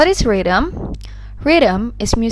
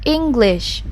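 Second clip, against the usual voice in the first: English with a stressed, lengthened first syllable; 2 semitones higher than usual. Shown as a demonstration. Teacher showing learners syllable stress in "English", stressed on the first syllable. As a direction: hit the ENG of "English". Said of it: "louder, longer, and higher in pitch".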